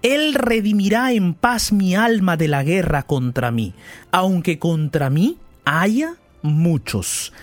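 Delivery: slow, measured reading of the psalm; solemn scripture reading. Acted. Preacher reads the psalm to listeners, slow and solemn. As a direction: read the verses slowly and solemnly.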